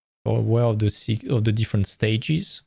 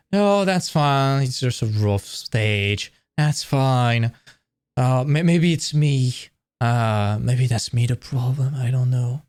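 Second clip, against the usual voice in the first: slow, hesitant self-reassurance; playing someone talking themselves out of a worry; acted denial; slower than usual. Person in denial excusing someone, slow acted reassurance. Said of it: "Then you are in denial".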